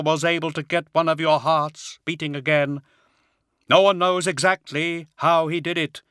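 high hollow unearthly voice; grave, otherworldly brother. A narrator's reading. Attias voiced as character.

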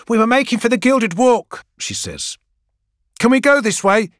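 put-on high young woman's voice calling across the street.

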